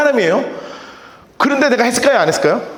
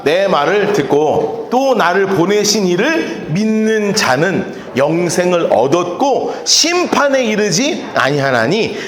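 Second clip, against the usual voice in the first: slow scripture reading; 4 semitones lower, slower than usual. Shown as a demonstration. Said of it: "시작".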